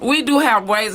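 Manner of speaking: chewing candy while talking; mouth full. Real, not acted. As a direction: talk through a mouthful. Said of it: "you been chewing your ass off".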